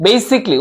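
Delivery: "basically" as "BAY-sik-lee", three syllables; correct pronunciation. Shown as a demonstration. Teacher repeating for students, "basically" shortened to "BAY-sik-lee". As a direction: say "basically" with no vowel between "k" and "l". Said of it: "উচ্চারণটা কি".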